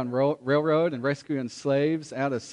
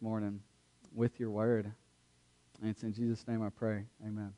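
prayer. Acted. Pastor prays before the sermon.

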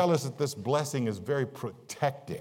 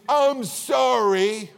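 stretched, mocking "I'm sorry", much higher and louder; drawn-out sorry; 6 semitones higher, 4 dB louder, much slower than usual. Shown as a demonstration. Preacher mocking a fake apology to the congregation, drawn out. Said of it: "have you ever said something you didn't mean?".

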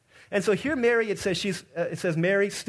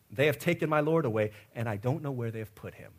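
grieving Mary; 6 semitones lower, 5 dB quieter than usual. Retold or imitated. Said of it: "And this is what she says".

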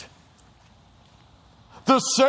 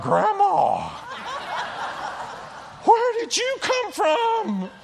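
surprised shout; 11 semitones higher, slower than usual. Pretend. Startled people seeing grandma rise.

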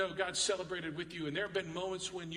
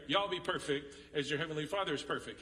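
Texan y'all; 2 semitones lower than usual. Shown as a demonstration. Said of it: "so in Texan speak".

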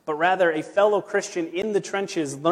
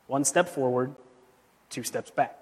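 quiet falling refrain; 4 semitones lower, 6 dB quieter than usual. Shown as a demonstration. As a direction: lower and softer, letting the last words fade. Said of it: "refrain repeated, dropping away".

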